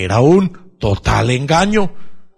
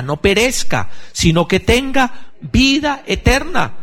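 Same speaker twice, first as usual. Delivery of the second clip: rising higher to a soaring "vida eterna"; fervent proclamation; 6 semitones higher than usual. Acted. Preacher proclaiming the Gospel to the congregation, building fervor.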